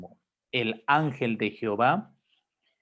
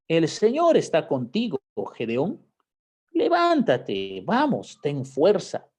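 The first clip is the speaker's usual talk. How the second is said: encouraging; 4 semitones higher, 3 dB louder than usual. Retold or imitated. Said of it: "Le anima".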